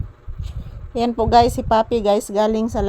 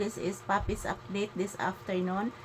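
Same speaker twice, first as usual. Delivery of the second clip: same update line, much softer and close to the mic; softer, hushed; 2 semitones lower, 15 dB quieter than usual. Real, not acted. Vlogger repeating the update line softly for viewers, hushed. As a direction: murmur the update under your breath.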